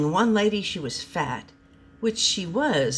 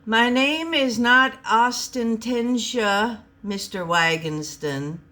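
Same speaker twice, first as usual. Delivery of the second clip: indignant correction; 5 semitones higher, 4 dB louder, slower than usual. Acted. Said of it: "Osterna spoke up".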